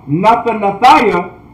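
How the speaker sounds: slow "Nathanathiah" with an extra vowel mid-word; mispronunciation demo. Shown as a demonstration. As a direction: misread it as one word, "Nathanathiah". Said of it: "and that's not correct".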